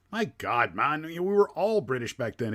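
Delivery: a hint of a scandalised old soldier correcting people; exasperated Ichabod Crane. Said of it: "And he's like".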